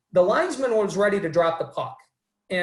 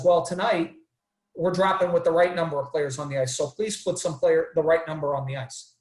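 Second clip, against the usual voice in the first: calm referee, retold; 2 semitones lower than usual. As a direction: retell it in an even, unargumentative way. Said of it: "the referee very calmly says".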